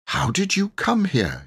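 a vicar questioning sternly; severe. A narrator's reading. Vicar demands an answer from the children, mildly severe. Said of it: "he asked severely".

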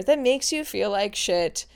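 lightly voiced sports announcer; a hint of announcer cadence. Shown as a demonstration. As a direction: echo a sportscaster's call, understated. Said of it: "a sports announcer".

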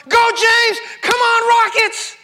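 high, loud mock fan cheering; shouting sports fan. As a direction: holler for the team like an excited spectator. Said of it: "they're shouting and screaming".

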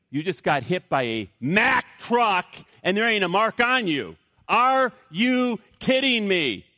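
mock-astonished, stretching out the last words; incredulous. Acted disbelieving reply to friend.

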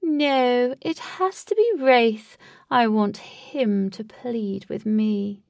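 high, loud, drawn-out refusal; gloating villain. A narrator's reading. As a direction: savour the power over him. Villain insists Wraith must plead.

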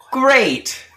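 put-on high-pitched, over-delighted kids-show reply; Dora the Explorer. Host answering a quiet audience, mock Dora voice. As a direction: pretend the silent viewers answered, voice way up. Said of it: "then it's, like, quiet".

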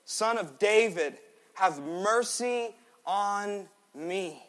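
high, slow pleading cry. Acted. Beggar ignoring the crowd, shouting his plea. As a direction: stretch out the plea for mercy. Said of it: "he shouted all the more".

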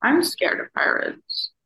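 slow, high breathy whisper of mock fear; mock scared. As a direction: whisper it like a kid pretending to be scared. Joking about pirates in parade.

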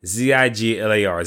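slow, deliberate spelling; spelling it out slowly. Shown as a demonstration. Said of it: "Look him up".

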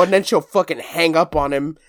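usual speaking voice

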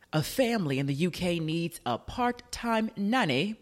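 bad British accent. Shown as a demonstration. Radio host reading out a UK nanny job ad, bad British accent. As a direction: try a British accent you can't really do. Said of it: "That's my British accent because I can't do one".

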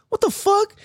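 high, stunned what the fuck; retold shock. Reacting to the lady cutting the line, stunned high disbelief. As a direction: act floored by the cut. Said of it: "And we're like".

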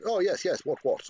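high, loud mock Queen's English; stereotypical British. Podcaster showing how people expect Brits to talk, exaggerated upper-class British. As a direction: do an old upper-class British officer accent. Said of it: "expect British people to speak like".

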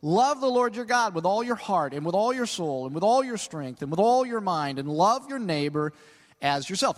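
confident recitation, rolling through each "all"; fully confident. Retold or imitated. Law teacher answers Jesus, brimming with confidence. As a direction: recite it with total assurance. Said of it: "says with all the confidence in the world".

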